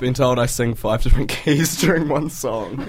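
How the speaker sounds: lost voice, hoarse and strained. Real, not acted. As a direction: talk through a hoarse, worn-out throat. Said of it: "Jack's lost his voice".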